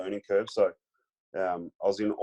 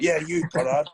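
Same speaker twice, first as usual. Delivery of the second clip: lightly imitated call-out, pitched up; single out the rookie in a raised pitch; Michael Voss; 7 semitones higher, 4 dB louder than usual. Star opponent singling out the young player, imitated challenge. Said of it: "And he's like".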